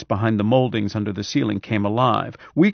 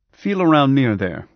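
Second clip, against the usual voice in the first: firm, louder instruction; ordering; 4 semitones higher, 6 dB louder than usual. A narrator's reading. Doctor tells patient where to search, ordering. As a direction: give it as an order, higher and louder. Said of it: "Brad ordered".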